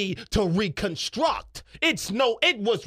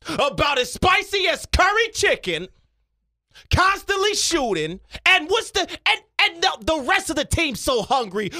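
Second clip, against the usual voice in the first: Stephen A Smith. Acted. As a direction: build from measured setup to indignant punches. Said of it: "Stephen A Smith".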